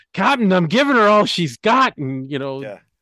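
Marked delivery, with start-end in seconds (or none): 0.2-2.0 put-on loud, raised, high-pitched Scottish accent. Likening the world's energy troubles to Star Trek, quoting Scotty: Scotty's Scottish accent. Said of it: "That's a good Scottish, that's a good Scottish, accent you have there".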